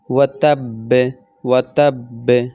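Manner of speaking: ওয়াতাব্বে with a doubled ব and a hard echo; strongest qalqala. Shown as a demonstration. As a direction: land the ব of ওয়াতাব্বে hardest. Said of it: "সব থেকে বেশি শক্তিশালী".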